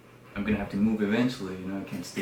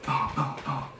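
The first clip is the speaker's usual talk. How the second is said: higher, punchy repeated thuds; mimicked pounding steps; imitated heavy footsteps; 4 semitones higher than usual. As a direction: voice each thud as a sound effect. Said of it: "I hear the big ass tap".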